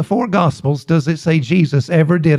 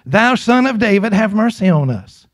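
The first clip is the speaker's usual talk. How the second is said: raised-pitch retold plea, falling away; mild imitated cry; 4 semitones higher than usual. Preacher quoting two blind men following Jesus, mild imitated cry. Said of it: "they're crying and saying".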